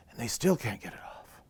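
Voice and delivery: soft, breath-spent letdown; deflated hush. A narrator's reading. Animals still can't free the berry, deflated hush. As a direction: drop to a near whisper after the effort.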